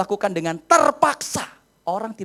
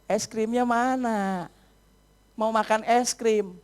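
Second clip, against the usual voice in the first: slow, drawn-out child's request, lightly imitated; a hint of a pleading kid; slower than usual. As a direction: draw it out like a kid asking for a treat. Child pleads for ice cream.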